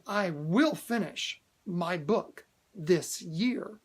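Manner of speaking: slow and deliberate, each word set down; firm slow declaration. Shown as a demonstration. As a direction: declare it like a settled fact, slowly. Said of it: "and saying".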